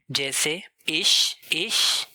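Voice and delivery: इश with a long ee vowel, said slowly; इश with the German ee, not the English eye; German i sound. Shown as a demonstration. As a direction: draw out the ee in इश. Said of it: "German letter आई का sound ई होता है".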